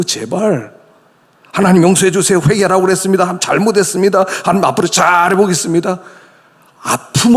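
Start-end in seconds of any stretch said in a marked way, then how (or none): 1.5-6.0 mock mechanical prayer. Mechanical prayer being mocked.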